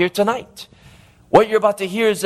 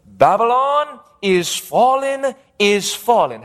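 a touch of an angel's proclamation, higher and drawn out; lightly voiced angel; 4 semitones higher, slower than usual. Preacher reads the angel's message to the congregation, lightly voiced proclamation. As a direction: slowly proclaim it, starting raised in pitch. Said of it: "there followed another angel saying".

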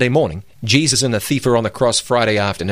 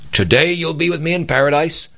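today you'll be with me in paradise said higher and pushed, imitating an emphatic preacher; 5 semitones higher than usual. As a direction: hammer it home like a funeral preacher. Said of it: "He was emphatic".

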